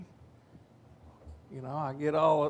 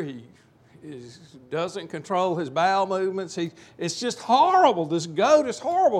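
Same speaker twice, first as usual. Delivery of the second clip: upset complaining; 4 semitones higher, 5 dB louder than usual. Retold or imitated. Desperate man complains about the goat to the rabbi, loud and exasperated. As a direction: pile up every grievance, louder each time. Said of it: "he's more upset than ever".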